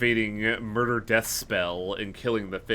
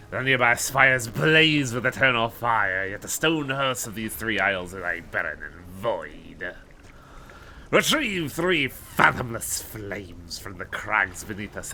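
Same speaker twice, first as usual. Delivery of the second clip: crazy voice. Acted. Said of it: "when I do my crazy voice".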